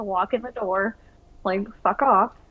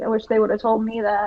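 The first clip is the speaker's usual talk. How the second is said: quiet grumbling mutter to herself. Retelling what a coworker said while walking by: imitating someone muttering under breath. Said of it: "under her breath".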